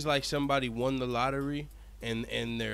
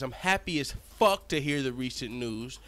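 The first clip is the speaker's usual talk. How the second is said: gleeful celebration; 2 semitones higher than usual. Pretend. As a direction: gloat with giddy glee. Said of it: "what he means to say is".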